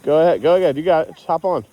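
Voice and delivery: encouraging shout. Real, not acted. Cheering kid onto sled.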